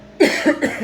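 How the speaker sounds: harsh dry cough. Real, not acted. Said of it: "Desculpa a tosse aqui".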